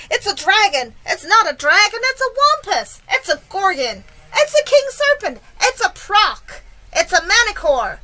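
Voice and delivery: high, loud, overlapping-crowd style yells; each guess yelled in fresh alarm; panicked shouting. A narrator's reading. Firemen and policemen name the monster, shouting. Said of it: "all started shouting at once".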